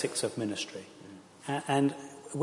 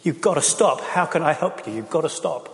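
raised, pleading mock yell; pretend pleading yell; 5 semitones higher, 4 dB louder than usual. Imagined sibling pleading with a heroin user, raised and pleading. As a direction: beg them to stop, voice raised. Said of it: "screaming and crying at your brother".

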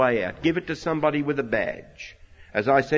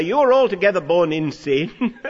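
scornful accusation; 3 semitones higher, 6 dB louder than usual. Retold or imitated. Pharisees insulting the healed man.

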